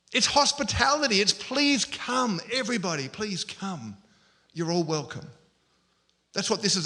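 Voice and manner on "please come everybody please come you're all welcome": warm invitation. Acted. Voicing a hospitable invitation.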